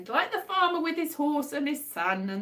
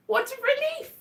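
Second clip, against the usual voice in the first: much higher, mock-bright exclamation; sarcastic relief; 13 semitones higher than usual. Real, not acted. To viewers about no income, sarcastic relief. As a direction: gush with fake relief.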